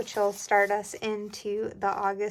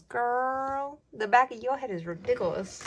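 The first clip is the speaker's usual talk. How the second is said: sketch quote; 5 semitones higher, 4 dB louder than usual. Retold or imitated. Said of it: "If you know what that's from".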